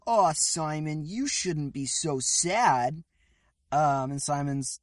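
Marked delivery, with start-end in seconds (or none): 0.1-3.0 consoling Captain N. Acted. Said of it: "and Captain N's like".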